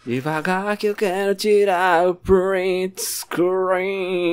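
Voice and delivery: drawn-out goofy begging; silly pleading voice. Acted. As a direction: stretch it out like a whiny cartoon. Begging the mob to slow down.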